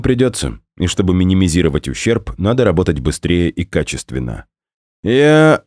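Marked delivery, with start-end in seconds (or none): 5.0-5.6 cut-off shout. Acted. Onegin cut off mid-shout.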